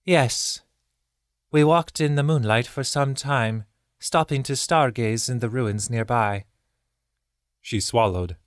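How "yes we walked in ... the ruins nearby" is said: remember it with sadness; sad wistful birdkin. A narrator's reading. Zael's sad memory.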